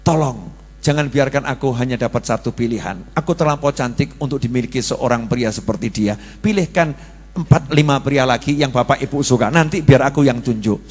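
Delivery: mock tender daughter. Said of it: "katakan kepada orang tuamu".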